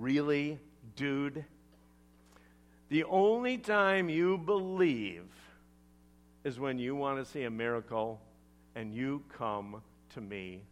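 mildly sarcastic, deliberate rebuke. Acted. Jesus rebukes the official who wants a miracle, mildly sarcastic. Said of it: "sarcastic tone".

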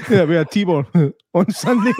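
mimicking a goofy giggle; mock the goofy laugh; imitating goofy laugh. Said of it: "Why did you do a wee goofy laugh there?".

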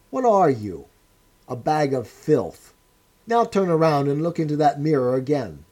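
a hard interrogator sneering at a wreck; stern interrogator. Acted. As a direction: press the prisoner's ruin on him. O'Brien berating Winston.

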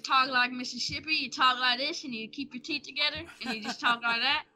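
demonstrated Mississippi accent. Shown as a demonstration. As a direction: keep your teeth together and talk Mississippi. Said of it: "I do Mississippi accent".

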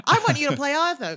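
high, very loud hammed-up offer; mock phone shout. Producer phoning Andrew Scott to play Arthur, mock shout.

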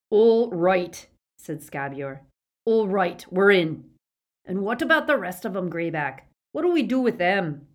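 eager Scabior. A narrator's reading. Scabior agrees with Greyback, loud eager voice. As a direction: jump in greedily.

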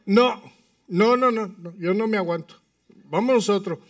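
acted-out impatient objection; retold firm refusal. Retold refusal to wait in line.

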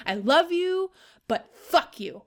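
whispered fuck you at the end. Real, not acted. Partner affectionately cursing boyfriend in a whisper. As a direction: breathe it as a private joke.

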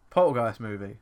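loud voice command into a phone; voice search command. Real, not acted. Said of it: "Just search movie".

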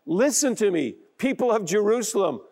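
lifted, confident call to the crowd; bold proclamation. Acted. Peter addressing the crowd at Pentecost, bold and lifted. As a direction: raise your voice and claim the crowd. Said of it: "in boldness and confidence and says".

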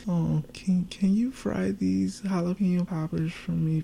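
put-on high, sweet babyish begging. Girlfriend begging her partner for snacks in baby voice. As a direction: beg like a little kid for a favor. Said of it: "she got the baby voice".

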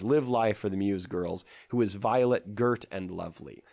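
put-on "live life" and "muse girls" stressed, "girt and lovely" alternating; metrical stress. Shown as a demonstration. Lecturer demonstrates the line's rhythm, stressing "live life" and "girt". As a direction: scan it, weight on "girt" and the first syllable of "lovely". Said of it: "alternating stressed and unstressed syllables".

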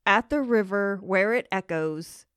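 mock loud echoing question, rising; loudly voicing the little sister's shocked question; retold loud exclamation. Mom retells daughter's loud question at the echoing river, mock loud. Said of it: "Lainey said very loudly".

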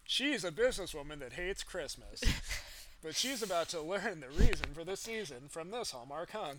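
movie trailer voice. Pretend. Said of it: "romantic comedy trailer voice guy".

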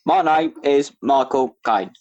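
slow lightly voiced Cockney film star; Michael Caine impression. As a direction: drawl it like a famous London actor.

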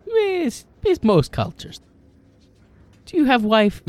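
put-on high, laughing foreign accent; laughing in character. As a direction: ask it through laughter. GM as Broden, laughing.

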